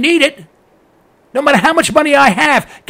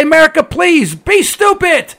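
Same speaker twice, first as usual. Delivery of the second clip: higher, slow and taunting, dragging out be stupid; mock taunt; 4 semitones higher, slower than usual. Investor host taunting drivers, higher and slow mocking plea. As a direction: gloat at the country as if doing it a favour. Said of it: "And I say".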